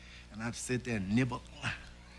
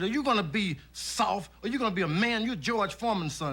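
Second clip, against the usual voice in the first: mock stern father; 7 semitones higher than usual. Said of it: "I said".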